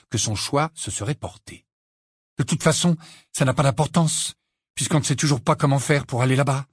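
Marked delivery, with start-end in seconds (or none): 2.4-6.7 frustré. Acted. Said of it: "toute sa frustration".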